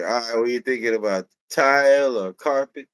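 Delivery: light Jamaican sales clerk; Jamaican accent. Retold or imitated. Employee helping a flooring customer, light Jamaican accent. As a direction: ask helpfully with a light Jamaican lilt. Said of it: "the Jamaican goes like".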